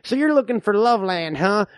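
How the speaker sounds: lightly voiced suspicious old frontiersman; old man. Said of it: "I'm the old man".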